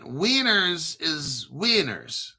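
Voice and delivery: drawn-out Latin American "wieners"; Latin American accent. Shown as a demonstration. Host explaining the viewer's word, Latin American accent. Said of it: "Your Latin American accent".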